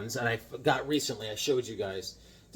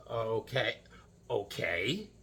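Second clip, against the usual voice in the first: meek okay; 5 semitones lower, 9 dB quieter, slower than usual. Retold or imitated. Meek reply to the shop owner.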